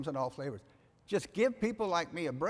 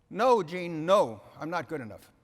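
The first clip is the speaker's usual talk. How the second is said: emphatic protest; 8 dB louder than usual. Retold or imitated. Retold argument with wife.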